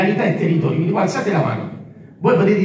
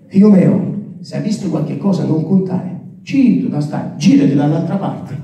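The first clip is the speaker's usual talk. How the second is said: a father hushing his son, in broad local dialect; Salentino dialect father; 5 semitones lower than usual. Retold or imitated. A father tells his son to stay silent, in Salentino dialect. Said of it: "Lo dico in dialetto".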